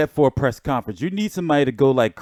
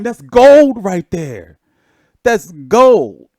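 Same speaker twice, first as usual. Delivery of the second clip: delighted; 4 semitones higher, 8 dB louder, much slower than usual. Real, not acted. Host relishing a funny clip.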